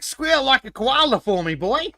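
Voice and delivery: put-on loud, high hillbilly accent threat; hick accent. George quoted as a menacing hick, in hick accent. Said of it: "that accent was good".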